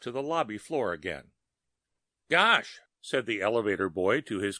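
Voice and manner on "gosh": a startled, higher "Gosh"; surprised exclamation. A narrator's reading. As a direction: blurt it out in surprise. Elevator boy exclaims.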